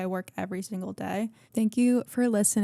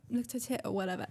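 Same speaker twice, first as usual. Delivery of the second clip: English accent; 6 dB quieter, faster than usual. Shown as a demonstration. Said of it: "my accent sucks".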